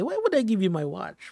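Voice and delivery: light, teasing retort; joking. Retold or imitated. Host imagines the President bantering with the graduate, joking. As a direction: toss it back as a joke. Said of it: "baka naman pabiro niyang".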